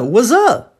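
"what's up" said as "wazzup". Shown as a demonstration. Teacher showing the street and film form, buzzing Z. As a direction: buzz the S of "what's up" into a Z. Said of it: "o S com som de Z".

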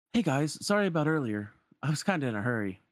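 lightly voiced apologetic young hero; Aladdin. Aladdin apologizing to Sora and friends, lightly casual. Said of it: "Aladdin turns to Sora".

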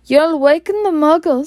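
high, tense warning; stern teacher hushing someone; urgent scolding hush. Acted. McGonagall scolding Hagrid to hush.

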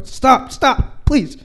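high, loud mock pleading; begging Trump. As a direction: whine for mercy in a hammed-up voice. Trump begging in imagined fight.

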